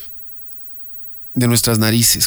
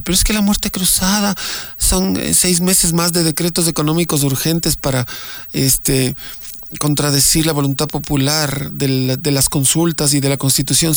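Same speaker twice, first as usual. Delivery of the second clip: voicing a critic who talks back; imagined critic; 3 semitones higher than usual. Host voicing an imagined critic's objection, mock tone.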